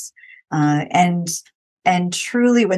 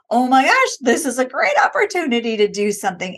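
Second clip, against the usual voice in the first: excited; 5 semitones higher than usual. Retold or imitated. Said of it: "like, excited".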